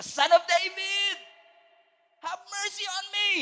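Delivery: high, loud desperate plea; blind man crying out. Acted. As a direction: cry out to Jesus for mercy.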